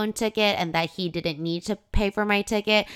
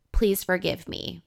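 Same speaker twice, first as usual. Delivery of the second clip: whispered plea. Retold or imitated. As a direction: breathe it out like a guilty note. Reading the apology note aloud.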